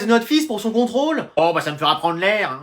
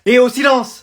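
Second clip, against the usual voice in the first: raised teacher's call; calling for silence; 3 semitones higher, slower than usual. Acted. Teacher to a noisy class, calling for silence. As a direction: call the class to order, higher.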